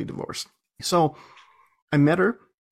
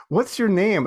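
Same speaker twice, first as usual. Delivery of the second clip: retold demand; 8 semitones higher, 4 dB louder, slower than usual. Retold husband's yelled questioning.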